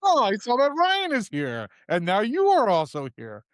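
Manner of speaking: high, loud mock Eastern European accent; Boris accent. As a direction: greet him in a hammed-up Boris accent. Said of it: "me doing a Boris accent".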